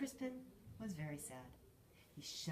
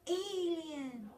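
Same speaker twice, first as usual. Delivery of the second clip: much higher, loud alarm; screamed; 11 semitones higher, 9 dB louder than usual. A narrator's reading. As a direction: scream it out in play fright. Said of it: "screamed Nick".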